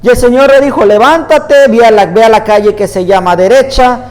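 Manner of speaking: measured, emphatic Bible reading aloud; scripture reading. Acted. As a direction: read the passage out to a congregation, phrase by phrase. Reads Bible passage aloud.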